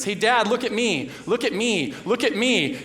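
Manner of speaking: put-on high, insistent child pleading for attention; toddler demanding. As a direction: beg dad to watch again. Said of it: "before she says".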